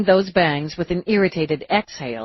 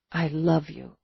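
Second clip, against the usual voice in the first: tender; 5 dB quieter than usual. Acted. Tender declaration.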